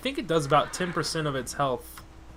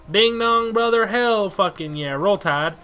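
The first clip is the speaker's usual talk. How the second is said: loud slow victory holler; triumphant cheer; 5 semitones higher, 8 dB louder, slower than usual. Real, not acted. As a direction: cheer the level-up. Level-up celebration.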